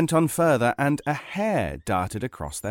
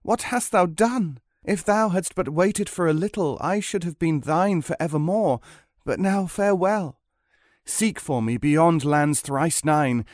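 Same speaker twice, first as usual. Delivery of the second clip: sorrowful departing wife; 5 semitones higher than usual. Acted. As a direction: draw out the parting words, pitched up. Farewell of the transformed wife.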